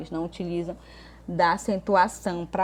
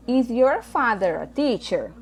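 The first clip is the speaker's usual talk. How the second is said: slow, louder English question; slow model reading; 5 semitones higher, 4 dB louder, slower than usual. Shown as a demonstration. Teacher reading exercise A to students, slow and clear. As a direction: read the exercise item out slowly and clearly. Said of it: "teacher reads exercise item".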